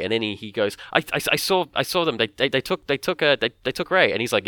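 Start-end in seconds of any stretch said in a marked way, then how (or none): 0.9-4.1 mock panicked stammer, pitched high; retold frantic yelling. Finn runs back for Rey, higher frantic stammer. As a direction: imitate a breathless, stumbling cry for help. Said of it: "you know, yelling for Rey".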